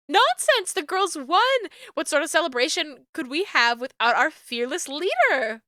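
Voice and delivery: pushy mom with sugary insistence; a gushing, insistent mom; flirty mom. Acted.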